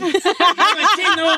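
slow words through a laugh. Real, not acted. Host laughing at his own song joke. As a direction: laugh as you say it.

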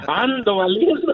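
laughing at himself. Real, not acted. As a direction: chuckle through the self-mocking pun. Caller jokes about himself, laughing.

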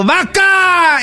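high shouted insult at a stranger; retold yell. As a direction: yell it out from the street. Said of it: "y que le grito". (grito burlón de insulto)

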